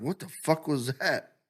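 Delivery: quick startled question; light imitation of being startled; mock surprise. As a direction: react to a strange noise. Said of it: "and you're like".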